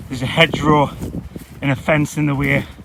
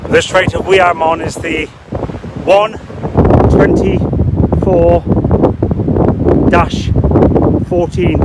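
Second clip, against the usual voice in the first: raised voice against the wind; shouting over wind; 3 semitones higher, 3 dB louder, slower than usual. Real, not acted. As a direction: call it out loud over the gusts. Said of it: "I don't know if you can hear me through the wind".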